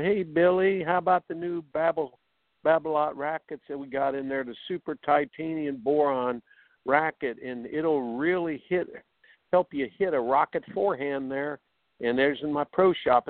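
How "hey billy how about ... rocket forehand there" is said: resort coach. Retold or imitated. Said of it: "resort coaching where you basically say".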